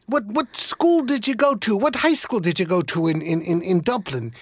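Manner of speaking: Irish voice starting high and eager; eager Irish accent. Retold or imitated. Second Irishman asking about school, eager Irish accent. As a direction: press him with Irish curiosity. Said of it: "identify with the accent".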